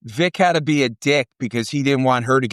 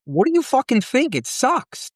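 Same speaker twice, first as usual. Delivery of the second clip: high, biting retort; exasperated mock outburst; angry retort; 10 semitones higher than usual. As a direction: snap back at a clueless question. Angry retort to people asking.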